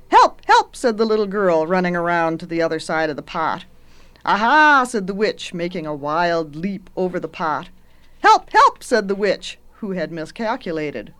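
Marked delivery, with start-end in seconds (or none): 0.1-0.8 high, loud storybook cry for help; short, high shouts of mock panic. A narrator's reading. Girl flees the witch. 4.3-4.8 high, loud pouncing cry; storybook witch's loud "gotcha" exclamation; triumphant witch. A narrator's reading. Witch leaps at the girl. 8.2-8.8 very high, loud cries for help; short storybook shrieks of alarm; panicked witch. A narrator's reading. Witch falls into the pot.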